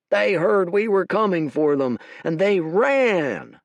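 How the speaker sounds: loud, boastful shout, slowing at the end. Acted. General boasts to the army the enemy fled, loud shout. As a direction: crow it out loud to the troops. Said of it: "shouted a general".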